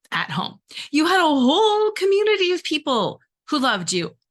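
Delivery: 1 eye-rolling disbelief. Retold or imitated. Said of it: "roll my eyes and be like".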